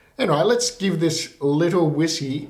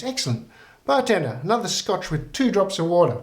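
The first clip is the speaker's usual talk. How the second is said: put-on higher old granny voice, pleased; cheerful old lady calling the barman, pitched up; 4 semitones higher than usual. Old lady orders another round.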